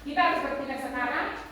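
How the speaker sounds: fast and firm, pitch dropping at sekarang; firm falling tune. Shown as a demonstration. Teacher models a firm statement, falling on sekarang. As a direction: land sekarang with a decisive fall. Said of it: "Itu dia punya pemodelannya".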